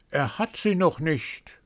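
a gossiping bird sneering; cawing raven voice. A narrator's reading. First raven to the others, high mocking caw.

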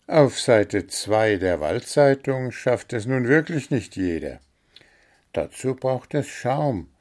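the gnome praises his own charm, vain and pleased; boastful gnome. Acted. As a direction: preen over his fame.

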